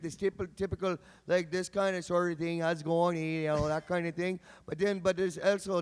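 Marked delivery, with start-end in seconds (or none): 2.6-3.2 light Canadian accent. Shown as a demonstration. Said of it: "stereotypical Canadian accent".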